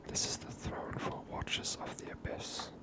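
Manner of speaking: ordinary talk, nothing marked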